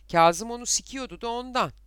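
put-on high, loud, unembarrassed child's answer; matter-of-fact child. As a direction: blurt it out as plain fact. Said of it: "en doğal şeyinden söz ediyormuş gibi". (çocukça, gayet doğal bir şeymiş gibi, tiz sesle)

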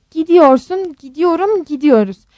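high, loud drumming insistence; insistent. A narrator's reading. Rose tells her husband they are going, insistent. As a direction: hammer each form of the verb.

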